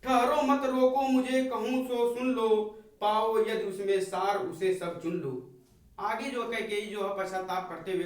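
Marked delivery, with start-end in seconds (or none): 0.0-5.3 forceful recital. Acted. Teacher voicing Kaikeyi's plea to the court, louder and forceful. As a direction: demand they hear her out.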